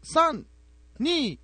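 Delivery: high counting down to the cue; studio countdown. Retold or imitated. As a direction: count down like a floor director. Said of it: "studio countdown to cue".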